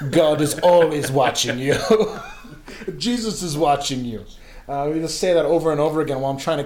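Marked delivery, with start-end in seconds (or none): 0.1-1.8 imitated guard's solemn warning; lightly put-on Senegalese guard voice. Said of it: "he would lean over me and say". 3.0-4.2 imitated guard's solemn warning; lightly put-on Senegalese guard voice. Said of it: "he would lean over me and say".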